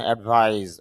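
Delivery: অ্যাডভাইস ending in a buzzing z; final z sound. Shown as a demonstration. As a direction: voice the last consonant of অ্যাডভাইস as z. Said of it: "জ sound হবে". (অ্যাডভাইস-এর শেষে জ (z) sound)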